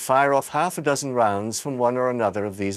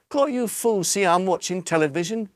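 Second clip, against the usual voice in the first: put-on angry boy; 9 semitones higher than usual. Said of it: "he said angrily".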